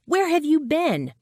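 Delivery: loud, high-pitched demand; yell. A narrator's reading. Narrator to long-missing friend, yell. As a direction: yell it in exasperated astonishment. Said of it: "I yelled".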